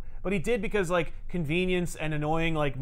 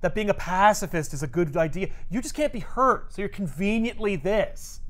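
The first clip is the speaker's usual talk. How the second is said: contemptuous Hulk; 4 semitones higher than usual. Retold or imitated. Hulk berating Wonder Man as a fraud, scornful. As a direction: tear into him with contempt.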